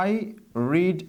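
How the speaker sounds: I and read split by a long pause; slow, spaced out. Shown as a demonstration. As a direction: say I, pause, then read, word by word. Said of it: "এটা হচ্ছে আমাদের basic form".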